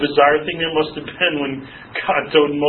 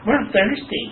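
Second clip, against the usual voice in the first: whining complainer; 6 semitones higher, slower than usual. Acted. Voicing complaining Israelites in desert.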